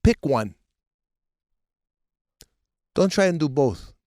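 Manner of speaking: lightly voiced dad, long pauses between orders; a hint of dad laying down the law; exasperated father. Father correcting son's mixed accent, exasperated. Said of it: "He goes".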